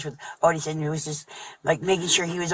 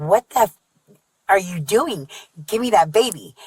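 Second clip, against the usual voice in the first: snapping at a man asleep with the baby, in a raised mock yell; retold scream; 3 semitones higher than usual. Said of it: "And I screamed".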